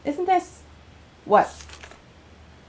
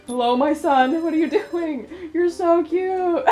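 cooing; slower than usual. Real, not acted. Cooing to cute character.

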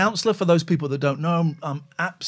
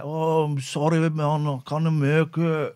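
snivelling voice; slower than usual. Retold or imitated. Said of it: "what a snivelling cat".

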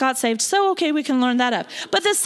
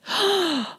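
mime a sudden sob; imitated sob; 4 semitones higher than usual. Minister recalling news of a death, imitated sobbing gasp.

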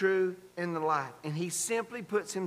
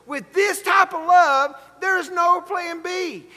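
raised, higher sermon voice; emphatic preaching; 8 semitones higher, 7 dB louder than usual. Real, not acted. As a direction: preach it firmly and high. Preaching at full force.

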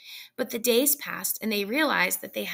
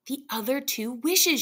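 quick; 4 semitones higher than usual. A narrator's reading. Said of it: "she replied quickly".

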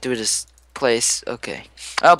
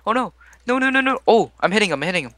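excited frantic yelling; 8 semitones higher, faster than usual. Real, not acted. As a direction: build from nervous to thrilled. Frantic fight in game.

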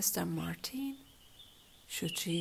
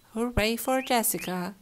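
cheering; 3 semitones higher, 8 dB louder than usual. A narrator's reading. Family cheers at dinner.

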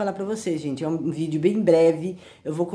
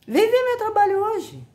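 squeaky high, defiant invitation; high-pitched challenge. Real, not acted. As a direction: come see it, in a high defiant voice. Challenging critics, exasperated.

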